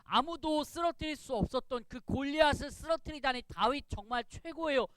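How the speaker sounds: lightly acted acclaim; acted cheering. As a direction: marvel like a cheering onlooker. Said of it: "박수치고 막 환호하는 거예요".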